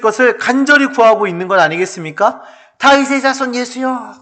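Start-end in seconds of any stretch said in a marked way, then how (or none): 2.8-4.1 high-pitched, drawn plea for mercy; acted cry for mercy; pleading cry. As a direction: call out imploringly as the blind man. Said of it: "소리 소리 질렀던 거예요".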